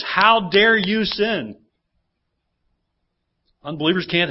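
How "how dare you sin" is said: mock judgmental. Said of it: "judgmental attitude that says".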